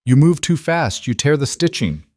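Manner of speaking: put-on lightly accented English, calm; a hint of accented English. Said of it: "the man said in accented English".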